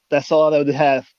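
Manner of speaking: tripping over the words; stuttering. Real, not acted. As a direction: stumble and restart, flustered. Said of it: "I'm stuttering".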